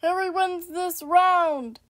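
booming fighting game announcer. Pretend. Announces round winner.

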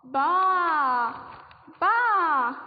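long, drawn-out loud "baa"; loud sheep bleat. Acted. Teacher gives children a sheep sound to guess, loud bleat. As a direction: imitate a sheep bleating loudly. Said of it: "That is a very loud ba".

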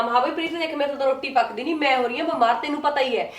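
a touch of faked sweetness; mock-sweet imitation. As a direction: imitate her sweet-talking request. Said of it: "ਮੈਨੂੰ ਪਿਆਰ ਨਾਲ ਕਿਹਾ".

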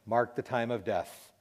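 slow, firm pronouncement; authoritative. Retold or imitated. Doctor pronouncing death to the room, authoritative. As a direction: deliver it with measured authority. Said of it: "he very authoritatively said".

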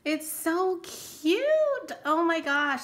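slow, drawn-out gush, pitch way up on cute; gushing delight. Real, not acted. Crafter gushing over a gifted card to viewers, slow high delight. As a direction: melt over how cute it is.

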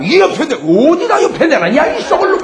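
high mock outburst at a husband; hammed-up, high-pitched telling-off; defiant wife. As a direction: act out a wife cursing back.

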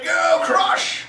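high, drawn-out rallying cheer; cheer to repeat. Shown as a demonstration. Turtle asks crowd to cheer his swim, high rallying call.

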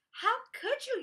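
high, loud accusation; yelling indignantly. A narrator's reading. Iguanodon over the wrecked tower, yelling indignantly. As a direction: yell it, appalled. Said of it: "yelled Iguanodon".

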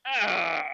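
loud, drawn-out "ah" of horror; dismayed groan. Retold or imitated. Acting dismay at his church.

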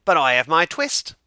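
put-on high, loud old tailor's voice; weary old tailor. A narrator's reading. Old tailor wakes weak but relieved, loud and high. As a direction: lament it like a worn-out old man. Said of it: "said the Tailor of Gloucester".

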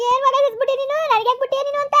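high-pitched aggrieved retort; indignant protest. Acted. Wife answering her husband's accusations, high indignant protest.

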